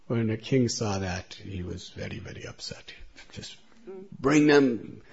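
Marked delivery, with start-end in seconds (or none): 3.3-5.0 loud, commanding king's order; angry order. A narrator's reading. The king, very upset, orders the guards with a loud angry command. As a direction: bark it out as an enraged ruler.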